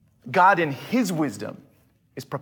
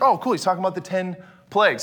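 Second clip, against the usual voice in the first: offhand reader; faster than usual. Retold or imitated. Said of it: "I put the emphasis on the wrong place".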